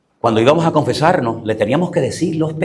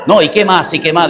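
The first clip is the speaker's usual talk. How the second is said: lightly acted priest pressing for more; cura insistente; 2 semitones higher, 4 dB louder than usual. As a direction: press the penitent with quick questions. (cura que insiste, imitado)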